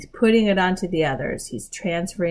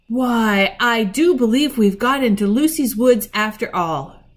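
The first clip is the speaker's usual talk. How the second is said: higher, louder wonder; amazed realization; 5 semitones higher, 6 dB louder than usual. A narrator's reading. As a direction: exclaim in dawning amazement. Peter realises Lucy was right.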